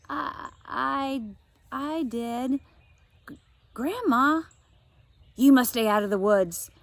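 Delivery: put-on high, halting, frightened girl; scared child. Josie stammers fearfully to Grandma about the woods. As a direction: stammer it out in fear.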